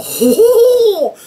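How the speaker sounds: high, loud, slow strained ho ho ho; Loki's strained laugh. Retold or imitated. Loki heaving on the rope, high strained laughing. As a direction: laugh while hauling hard on the rope. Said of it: "And Loki would go".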